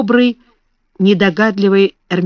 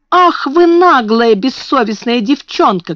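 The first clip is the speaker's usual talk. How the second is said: angry shout; 5 semitones higher, 3 dB louder than usual. A narrator's reading. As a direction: scream at the maid in fury. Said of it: "кричала она". (злобный крик, высоко и громко)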